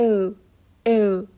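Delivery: "او" glided from e into rounded ö; o with e before it. Shown as a demonstration. Teacher explains the umlaut, "او" as e blended into o. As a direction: say "او" as ö, starting from an e. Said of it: "مثل یه حالت اویی که قبلش صدای ا".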